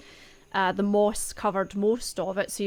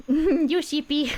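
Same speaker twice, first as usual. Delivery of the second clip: slow teasing through a laugh; 7 semitones higher, 7 dB louder, slower than usual. Real, not acted. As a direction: tease them while laughing. GM repeats it, laughing.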